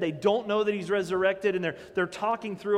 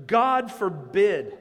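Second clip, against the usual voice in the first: emphatic slow denial; 6 dB louder, much slower than usual. Acted. Emphatic King James reading.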